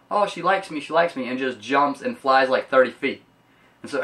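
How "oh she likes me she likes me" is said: giddy, higher-pitched gush; excited. Retold or imitated. Rudolph after Clarice says she likes him, giddy higher-pitched gush. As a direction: bubble over like a kid with a crush. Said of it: "gets really super excited and says".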